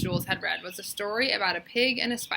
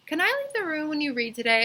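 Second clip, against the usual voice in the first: put-on pleading child; 8 semitones higher, faster than usual. A narrator's reading. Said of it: "asked Dana".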